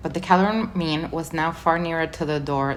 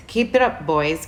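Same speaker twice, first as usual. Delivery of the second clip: dwarf rallying call. Acted. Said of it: "came Griffel's voice".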